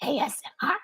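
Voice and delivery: grotesque whispered monster voice; breathy creature rasping an ASMR whisper; Iris monster voice. Pretend. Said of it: "It hurt me just to do that little bit of Iris's voice".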